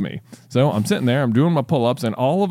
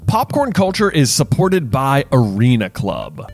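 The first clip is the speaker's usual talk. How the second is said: bright, louder sponsor read over music; 4 dB louder than usual. Acted. Host reads a sponsor ad to viewers, upbeat. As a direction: sell it like a host ad spot.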